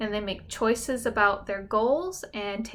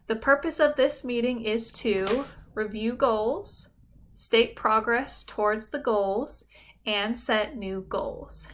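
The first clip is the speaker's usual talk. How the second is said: model statement. Shown as a demonstration. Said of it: "you might say".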